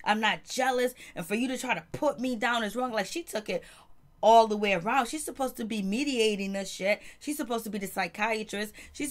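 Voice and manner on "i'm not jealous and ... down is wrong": mock self-righteous mantra. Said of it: "She's closing her eyes and she's just saying".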